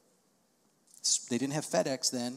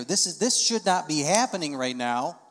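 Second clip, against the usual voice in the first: indignant; 5 dB louder than usual. Retold or imitated. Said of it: "becomes indignant".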